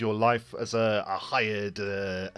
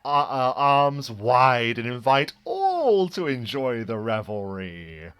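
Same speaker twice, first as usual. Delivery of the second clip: grand, showy circus ringmaster, high and loud; 6 semitones higher, 7 dB louder, slower than usual. Acted. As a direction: play a theatrical ringmaster welcoming all. GM voices Fortis the ringmaster.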